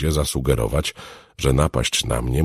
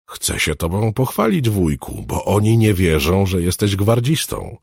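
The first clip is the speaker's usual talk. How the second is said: put-on higher-pitched child, boasting plans; eager little girl; 7 semitones higher, 3 dB louder than usual. Girl wants to show off her uncle, eager. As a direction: plead like a keen young girl.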